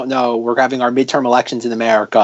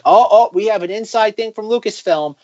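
mock excited fan; 6 semitones higher than usual. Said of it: "fan sites be like".

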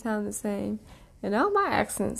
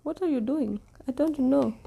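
higher, lilting attempt at Indian accent; half-successful mock Indian accent; 4 semitones higher than usual. Shown as a demonstration. Co-host taking her turn, higher shaky-attempt Indian accent. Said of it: "supposed to be my Indian".

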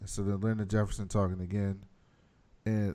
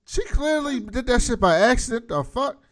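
exasperated; 12 semitones higher, 6 dB louder than usual. Retold or imitated. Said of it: "I was like".

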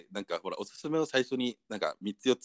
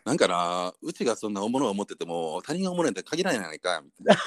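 Kansai dialect. Acted. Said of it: "いきなりの関西".

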